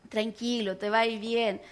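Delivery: low, soft reassurance; calm him down gently; soothing. Retold or imitated. Wife calming her rushed husband, soft and low.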